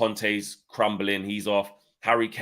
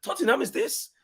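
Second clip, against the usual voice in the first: mock Italian accent, much higher, Conte ranting; Conte's Italian accent; 6 dB louder than usual. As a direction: do Conte in a hammed-up Italian accent, pitched high. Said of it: "Terrible accents".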